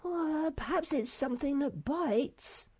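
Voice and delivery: very high, worried little voice; timid high-pitched creature; anxious. A narrator's reading. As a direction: squeak it hesitantly, dreading the answer. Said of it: "said Sniff anxiously".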